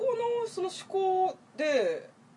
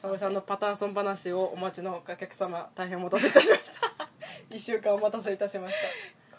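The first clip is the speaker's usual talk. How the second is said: polite announcer laughing through; customer service voice; 2 semitones lower than usual. Pretend. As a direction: stiff staff announcement, amused. (店員のアナウンス口調で)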